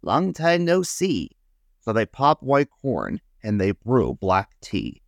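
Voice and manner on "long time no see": higher, cheery greeting; friendly hare. A narrator's reading. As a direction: greet an old friend brightly. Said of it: "says Hare".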